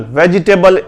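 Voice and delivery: वेजिटेबल in four syllables, "ve-jee-table"; wrong pronunciation. Shown as a demonstration. Teacher shows how not to read it, wrong pronunciation. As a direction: sound the i in वेजिटेबल. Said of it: "इसे नहीं पढ़ते".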